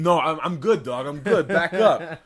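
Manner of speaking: loud, high mock protest; play-shout to fend someone off; mock alarmed refusal. Pushing Jesus away in a skit, shouting in mock alarm.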